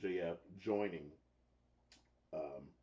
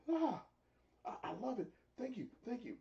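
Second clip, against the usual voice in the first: mock gratitude. Retelling Jericho's fake gratitude.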